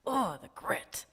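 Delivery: whispered. Real, not acted. Preaching about feeling pain.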